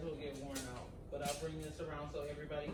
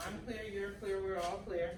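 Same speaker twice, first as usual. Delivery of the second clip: calling out clear; 3 semitones higher than usual. Shown as a demonstration. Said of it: "So you're saying it again".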